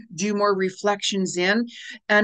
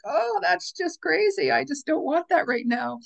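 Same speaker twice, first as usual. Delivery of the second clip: mock dismissive; 8 semitones higher than usual. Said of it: "Some people are like".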